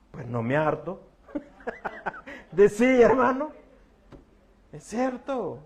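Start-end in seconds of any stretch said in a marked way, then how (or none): 0.1-1.0 laughing through the quote; pastor joke. Retold or imitated. Joking about a pastor's quip, laughing. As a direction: toss it off with a laugh. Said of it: "Decía un pastor".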